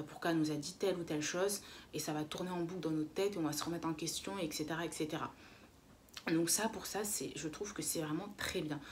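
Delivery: slight lisp from a new dental aligner. Real, not acted. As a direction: talk through a fresh aligner, lisping a little. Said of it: "Je suis désolée si je zozote un peu". (léger zozotement à cause de la gouttière)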